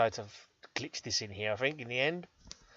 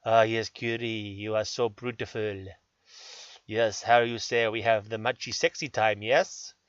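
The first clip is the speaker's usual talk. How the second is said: mock seducer; slower than usual. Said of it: "sexy time with my beloved Curie".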